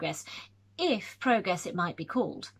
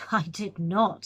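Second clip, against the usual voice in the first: firm, a little louder, each word set down; emphatic denial; 4 dB louder, slower than usual. Acted. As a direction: flatly refuse the suggestion. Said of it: "said Fanshawe emphatically".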